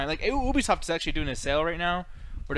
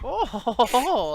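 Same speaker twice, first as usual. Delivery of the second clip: mock mad scientist laugh; 6 semitones higher, 4 dB louder, slower than usual. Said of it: "did he talk like that".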